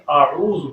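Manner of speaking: اعوذ with a clear throaty ain; اعوذ with a distinct ain sound; correct ain. Shown as a demonstration. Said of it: "یہ لفظ اعوذ ہے".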